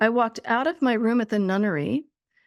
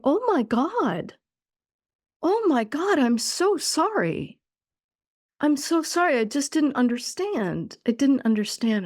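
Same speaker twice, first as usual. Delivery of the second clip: retold sobbing apology; 4 semitones higher than usual. Stunned speaker apologizing to the pain, retold sobbing apology. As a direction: retell a stunned apology without real sobs. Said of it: "I was just sobbing and sobbing".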